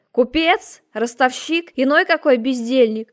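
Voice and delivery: loud, hammering questions; furious shout. A narrator's reading. Margrave interrogating the impostor, furious shouting. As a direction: keep roaring the accusations.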